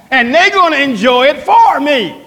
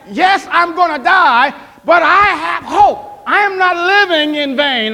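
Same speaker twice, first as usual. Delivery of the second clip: preaching hope; 3 semitones higher than usual. Acted. Pastor telling the congregation he has hope, fervent preaching.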